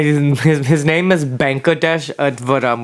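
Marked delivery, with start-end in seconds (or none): 1.2-2.8 lightly put-on thick Hindi accent. Shown as a demonstration. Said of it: "in a really thick Hindi accent".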